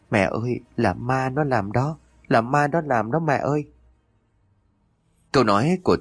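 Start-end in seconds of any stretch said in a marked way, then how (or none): 0.1-3.6 put-on higher, slowed, mildly tearful child voice; tearful wail. A narrator's reading. Frightened boy clings to his mother, tearfully blaming a ghost. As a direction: draw the words out in a high, plaintive cry. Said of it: "vừa khóc vừa mếu máo".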